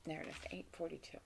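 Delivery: very soft, quick mutter; barely audible note to self; talking to herself. Real, not acted. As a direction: mumble it fast under your breath. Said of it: "I'm talking to myself".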